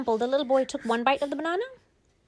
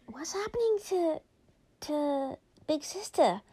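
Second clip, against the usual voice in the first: startled whisper; 7 semitones higher than usual. Acted. Brother's startled question, whispered.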